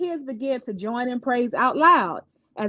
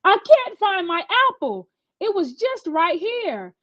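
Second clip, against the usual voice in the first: higher, a touch of tearful panic; a mildly upset girl hunting her apple; frantic crying; 7 semitones higher than usual. A narrator's reading. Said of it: "frantically crying with quivering lips".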